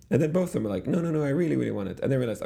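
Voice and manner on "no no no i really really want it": put-on high childish no no no; kids pleading. Retelling both kids insisting they want it, pleading. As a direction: imitate kids clinging to a toy.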